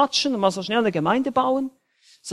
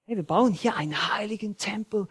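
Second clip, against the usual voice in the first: urgent whisper; 2 semitones higher, 6 dB quieter than usual. Real, not acted. Preacher whispering to the congregation about the temple. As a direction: lean in and whisper it.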